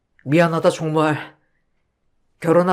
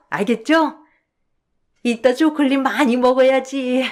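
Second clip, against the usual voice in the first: put-on childlike voice; 3 semitones higher than usual. Mother with dementia begging her son for chocolate, childlike. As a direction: whine like a seven-year-old asking for treats. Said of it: "칠 세 어린아이가 되시고".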